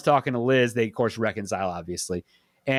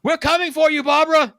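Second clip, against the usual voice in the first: higher, louder sing-song taunt; teasing zombie-movie line; 11 semitones higher, 5 dB louder than usual. Retold or imitated. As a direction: tease it like a creepy movie line, hammed-up. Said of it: "last line he says is".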